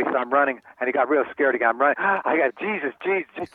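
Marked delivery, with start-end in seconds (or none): 2.0-2.0 sharp gasp of fear; frightened gasp. Retold or imitated. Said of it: "He was so scared". 2.0-3.5 mock terrified, higher, barely getting the name out; imitating a man too scared to speak; scared, struggling. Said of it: "He could hardly say Jesus. He was so scared".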